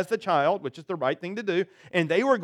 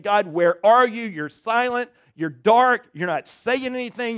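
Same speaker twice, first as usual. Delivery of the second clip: desperate prayer to God; 3 semitones higher, 4 dB louder than usual. Acted. Preacher voices a despairing prayer.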